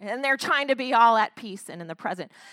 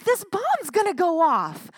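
mock panicked outburst, pitched up and louder; freaking out; 5 semitones higher, 6 dB louder than usual. Preacher retelling a movie hero's panic, mock-frantic and louder. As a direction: play a friend losing it over a bomb. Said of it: "Tim is, like, freaking out".

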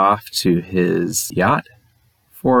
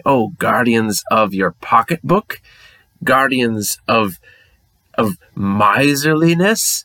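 mock fan; 2 semitones higher than usual. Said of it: "see that name and say".

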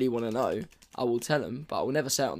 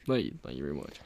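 a lower, hammed-up zombie thank-you; mock zombie voice; 9 semitones lower, faster than usual. Host signs off to his co-host in a mock zombie voice. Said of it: "such a good zombie".

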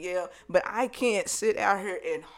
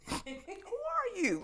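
slow, high-pitched, softer challenge; mock incredulous; 11 semitones higher, 10 dB quieter, much slower than usual. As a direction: draw it out in theatrical disbelief. Girlfriend challenges the rival.

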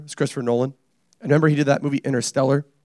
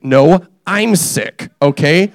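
mock protest; 5 dB louder, slower than usual. Mock-defending his own slang.

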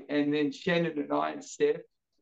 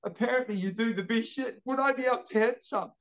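lightly voiced old lady, higher pitch; a hint of a sweet old customer; seventy-year-old woman; 5 semitones higher than usual. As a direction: imitate a polite elderly caller asking. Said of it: "it'd be a seventy-year-old woman".

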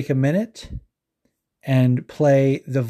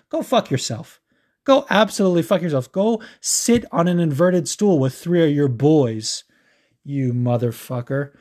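enraged; 2 semitones higher than usual. Real, not acted. Podcast host cursing out a creep, enraged. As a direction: tell them off with rising outrage. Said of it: "I'm just getting enraged".

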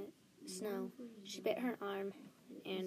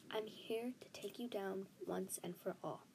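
whispering; 6 dB quieter than usual. Acted. Whispered defiant vow.

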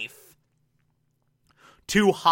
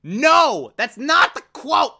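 much higher, incredulous protest; indignant correction; 8 semitones higher than usual. Real, not acted. Reviewer scolding the writers' error, high indignant protest. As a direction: protest the misquote in disbelief.

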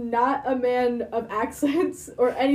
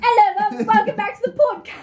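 high, loud hammed-up British greeting; mock British accent; 8 semitones higher, 5 dB louder than usual. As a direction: greet listeners in exaggerated British. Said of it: "in a British accent".

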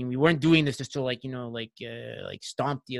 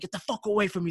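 higher-pitched imitation of an angry opponent; retold irritated brush-off; mock angry rebuff; 6 semitones higher, faster than usual. Beaten opponent refusing a handshake, mock angry. Acted quarrel after overtime loss.

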